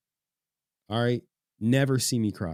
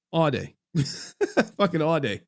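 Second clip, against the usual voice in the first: higher, amused through a laugh; 5 semitones higher than usual. Real, not acted. Streamer telling chat about court all day, laughing. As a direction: chuckle as you say it.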